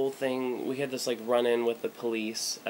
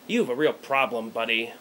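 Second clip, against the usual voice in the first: stern cop; 5 dB louder than usual. Retold or imitated. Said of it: "looks at me and goes".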